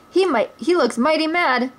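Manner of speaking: lightly voiced merry outlaws; a hint of playful bravado; lively outlaw voices. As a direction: toss it off cheerfully. Character lines.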